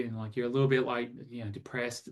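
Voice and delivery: sagging, softening as it goes; low energy. Shown as a demonstration. Coach sketching a downbeat client, low energy. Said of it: "you're speaking a little softly".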